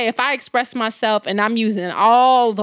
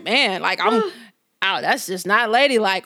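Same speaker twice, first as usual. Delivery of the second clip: lightly voiced boyfriend, a bit lower; understated imitation of his disapproval; disapproving boyfriend; 4 semitones lower, slower than usual. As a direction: imitate a man's mild, weary-of-it objection. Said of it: "And he like".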